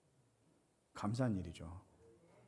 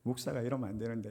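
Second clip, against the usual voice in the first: 1 uneasy inner worry; 2 semitones lower than usual. Retold or imitated. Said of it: "마음이 정말 불편한".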